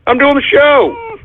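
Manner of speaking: high-pitched, frustrated outburst; exasperated protest. Real, not acted. Host to dog during the show, exasperated.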